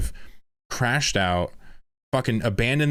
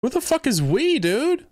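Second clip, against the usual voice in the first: incredulous shout. Real, not acted. Streamer shouting at the "we" in the statement. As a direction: scream the question in disbelief.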